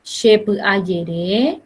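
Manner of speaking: slow, deliberate teacher model; spaced out for learners to repeat; slow model phrase. Shown as a demonstration. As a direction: say it slowly for the class. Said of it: "vuelvo a repetir".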